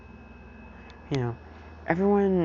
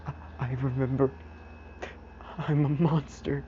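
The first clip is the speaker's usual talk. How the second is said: Izuku; 2 semitones higher, 3 dB quieter than usual. Retold or imitated. Crying Izuku confesses to Aizawa.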